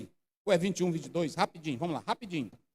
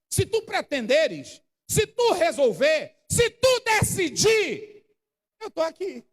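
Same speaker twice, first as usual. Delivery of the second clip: slow, building louder and higher; preacher building the plea to a shout; 4 semitones higher, 3 dB louder, slower than usual. Acted.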